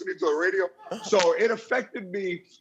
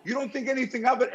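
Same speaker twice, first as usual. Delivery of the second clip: laughing confession; 7 semitones higher than usual. Real, not acted. Laughing along with host.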